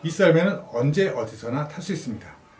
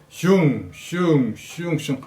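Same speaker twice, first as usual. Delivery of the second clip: whoosh sounds; much slower than usual. Shown as a demonstration. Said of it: "슝슝 소리를 냅니다".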